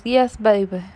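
lightly voiced grandma, barely changed; a hint of a sweet grandma answering; mild grandma voice. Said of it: "That's gonna be my grandma voice".

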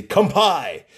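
called out like a toast; mock a cheery toast cry. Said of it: "when they toast here in Hawaii, they say".

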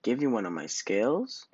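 a proud fish's shocked cry; indignant cry. Acted. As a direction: cry out, offended at the idea. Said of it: "cried Rainbow Fish".

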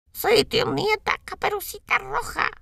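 lobo fingiendo voz aguda de niña; el lobo finge ser la nieta, alto; imitando voz de niña. A narrator's reading. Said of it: "tratando de imitar la voz de la niña". (lobo imitando a la niña)

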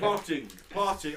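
sat nav voice. Pretend.

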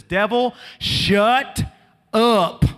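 loud, high shout at the devil; shouted command. Pretend. Preacher modelling a shout at the devil, loud and high. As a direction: command it to shut up. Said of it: "a generation that says".

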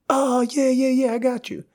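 high, breezy brush-off voice; dismissive waiter. Retold or imitated. Waiter brushing off the guest, high and breezy. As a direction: toss it off lightly, stalling.

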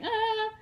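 loud, high-pitched little "ah"; a quick reaction noise, pitched right up. Retold or imitated. Recalling her reaction to the part she got, high "ah".

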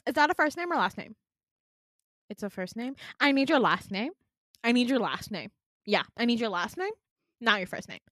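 mock officious demand; impatient receptionist. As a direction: talk over the patient insistently. Receptionist impatiently demanding last name.

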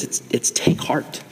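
slow, hushed whisper of the two words. Acted. Pastor to youth group, whispering take heart. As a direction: breathe it out softly and slowly. God's word for you whispered.

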